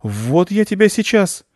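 high, slow, menacing cat cry; outraged cat's warning; angry threat. Acted. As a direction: threaten to pounce, drawing the words out. Indignant cat threatens the squirrel.

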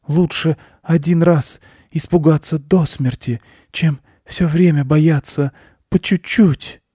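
high, halting small-animal voice; earnest hare after a scare; frightened hare. A narrator's reading.

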